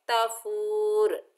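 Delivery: तफूर with the u only briefly held; short madd. Shown as a demonstration. Teacher showing the short form of तफूर. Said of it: "बगैर खींचे भी पढ़ सकते हैं".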